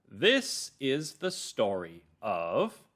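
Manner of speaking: slow, measured storytelling, word by word; calm, clear narrator. Shown as a demonstration. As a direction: read it slowly and clearly for children. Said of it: "my narrator voice is calm and clear".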